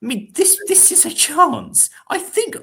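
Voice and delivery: rising dread. Acted. Dramatic warning England could finish bottom.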